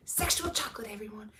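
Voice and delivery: 1 announcer voice. Retold or imitated. Movie line quoted.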